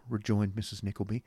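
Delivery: plain reading voice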